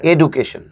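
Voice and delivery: "এডুকেশন" with a hard d, "e-du-ka-shon", no English stress; the wrong take of "এডুকেশন", hard du sound; flat wrong education. Shown as a demonstration. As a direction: say "এডুকেশন" the flat local way, "du" not "ju". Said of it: "এখানে অ্যাকসেন্টও নাই".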